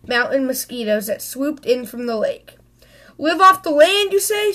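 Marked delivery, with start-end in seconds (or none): 3.2-4.5 high, mocking "you say?"; Mama mocking Papa's plan while running; sarcastic shout. A narrator's reading. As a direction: throw his words back at him. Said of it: "shouted Mama".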